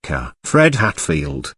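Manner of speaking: slow, mildly surprised recognition; half-gasp the name in understated surprise; amazed gasp. Acted. Ruth recognises the lost boy in the drift, mildly amazed. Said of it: "gasped the amazed girl".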